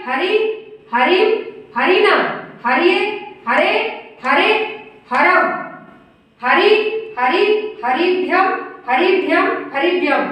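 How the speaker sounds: chant-like list, each form lifted at the end; declension recitation. Shown as a demonstration. Teacher reciting the forms of Hari for students, declension recitation. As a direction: recite each form separately with short pauses. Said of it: "बोल के दिखा रही हूँ आपको".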